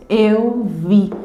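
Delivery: "Eu vi" as two separate, even beats; syllable counting. Shown as a demonstration. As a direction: count out "Eu", then "vi". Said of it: "também duas sílabas poéticas".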